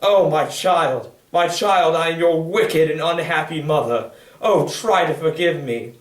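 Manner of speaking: loud, slow anguished plea; crying out. Acted. Mother on her knees begs her daughter, slow and loud. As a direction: cry it out, begging forgiveness. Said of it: "cried to me".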